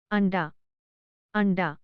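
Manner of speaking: अंडा with the nasal as ण before ड; careful demo word. Shown as a demonstration. Teacher models अंडा for learners, careful demo. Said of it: "जैसे".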